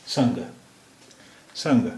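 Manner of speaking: "संग" with a light "aa" sound blended in, slow; Nepali pronunciation. Shown as a demonstration. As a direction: stretch "संग" letting a faint aa colour the vowel. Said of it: "आ की आवाज़ भी इसके साथ मिली हुई है". ("संग" में हल्की सी आ की आवाज़ मिलाकर बोलिए)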